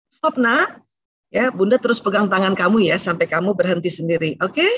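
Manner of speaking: gentle, firm mother setting a limit; calm parental limit without roughness; firm but not harsh. Shown as a demonstration. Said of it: "Tapi tidak kasar".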